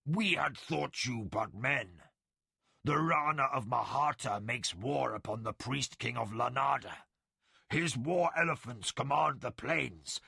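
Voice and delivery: defiant, holding back a growl; snarling tiger warrior. Acted. Chuan explains the war.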